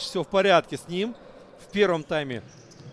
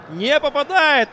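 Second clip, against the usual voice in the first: higher, louder dismayed cry; excited commentary; 7 semitones higher, 5 dB louder than usual. Real, not acted. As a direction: groan out the miss. Another miss.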